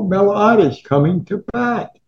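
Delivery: the father can't miss this at-bat; excited fan. Retold or imitated. Father excited about ball game.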